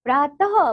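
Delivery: प्रातः with a light "h" ending; visarga pronunciation. Shown as a demonstration. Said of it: "इसका जो उच्चारण होता है हल्का हो की तरह".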